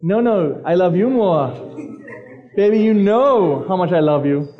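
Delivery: mildly acted lovey-dovey phone talk; playful imitation of a smitten teenager; sweet talk. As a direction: lightly mimic sweethearts trading endearments. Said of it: "you know that sweet talk".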